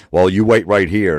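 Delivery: mock-authoritative officer; stern order. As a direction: order them to stay put. Acted officer ordering traveller to wait.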